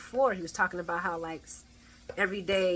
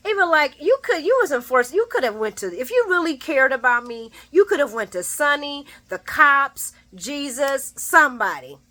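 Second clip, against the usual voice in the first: Ava telling him off; 5 semitones higher, 3 dB louder than usual. Retold or imitated. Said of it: "she didn't say the last part".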